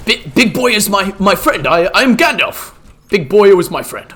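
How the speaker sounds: hint of a bumbling old wizard; Gandalf role-play. Streamer playing Gandalf for chat, lightly voiced old wizard.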